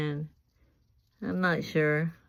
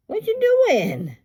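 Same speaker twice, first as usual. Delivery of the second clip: loud, slow, very high parrot squawk; imitating parrot talk; 9 dB louder, slower than usual. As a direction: stretch it out squeakily like a parrot. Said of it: "And he says".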